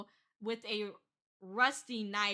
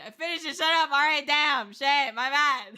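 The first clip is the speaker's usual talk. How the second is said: mock exasperation; 3 semitones higher, 10 dB louder than usual. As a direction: blurt it out in mock annoyance. Acted exasperated repeat, snapping back.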